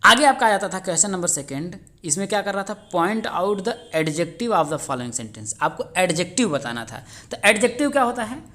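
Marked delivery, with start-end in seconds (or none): 2.9-5.5 word by word, very slow reading; slow dictation. Shown as a demonstration. Teacher reading the exam question to students, very slow dictation. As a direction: dictate it so students can write.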